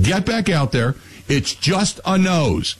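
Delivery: lightly voiced drill sergeant, unmoved; gruff army dad. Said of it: "My dad was an Army sergeant".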